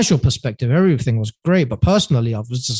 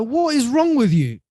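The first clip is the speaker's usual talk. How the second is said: mock exasperated dad; 10 semitones higher than usual. Dad scolding son's career move.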